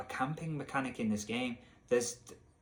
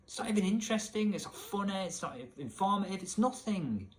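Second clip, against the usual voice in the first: higher-pitched, exasperated listing; exasperated rant; 7 semitones higher than usual. Real, not acted. Gamer ranting at pointless dialogue, exasperated. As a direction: pitch riding high, fed up.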